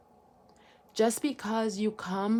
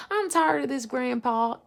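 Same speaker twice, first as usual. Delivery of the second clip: higher-pitched mock complaint; lightly hammed-up protest; fed-up granddaughter; 4 semitones higher, 4 dB louder than usual. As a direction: play a granddaughter who has had enough.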